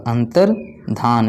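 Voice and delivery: "अंतर्धान" drawn out syllable by syllable; slow spelling demo. Shown as a demonstration. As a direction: stretch "अंतर्धान" slowly so they hear dhaan. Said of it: "यहाँ पर धान रहेगा". ("अंतर्धान" धीरे-धीरे, एक-एक अक्षर)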